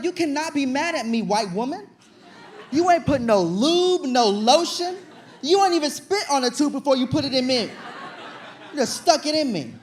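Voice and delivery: loud, laughing rant at the nurse; indignant shouting. Retold or imitated. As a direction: yell it back, outraged but cracking up. Arguing back at the nurse.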